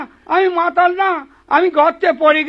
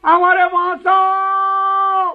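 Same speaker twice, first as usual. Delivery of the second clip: long drawn-out cry for help; calling for help; 3 semitones higher, much slower than usual. Acted. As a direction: stretch it out, begging someone to hear. Man trapped in pothole cries out. (সাহায্যের জন্য টানা চিৎকার)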